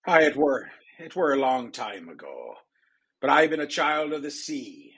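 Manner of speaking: a lightly voiced old sea dog; pirate. Pirate tells the queen the sea is his home, lightly voiced. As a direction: stake your claim to this land like a salty pirate.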